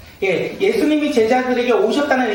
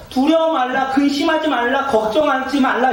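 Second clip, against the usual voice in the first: higher, emphatic preacher's quotation; insistent string of commands, pitched up; Jesus; 5 semitones higher than usual. Acted. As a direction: voice a firm, urgent reassurance. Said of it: "예수님이 오셔서 말씀해 주시는 거예요".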